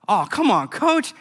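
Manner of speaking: player protesting to the coach; whining. Retold or imitated.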